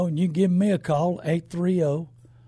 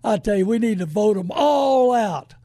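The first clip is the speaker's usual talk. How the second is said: raised call; 4 dB louder than usual. Real, not acted. Radio host rallying listeners to vote.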